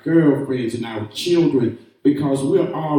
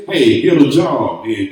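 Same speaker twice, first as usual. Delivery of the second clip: gruff mock woman; 4 semitones lower, 5 dB louder than usual. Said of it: "a woman that sound like this".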